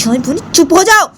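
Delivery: put-on squeaky high girlish protest; childish protest. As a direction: protest your innocence like a sulky girl. Bani asks why.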